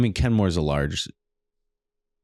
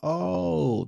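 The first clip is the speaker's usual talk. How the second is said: mock recognition; 9 semitones higher, 3 dB quieter than usual. Feigned recognition of a famous game.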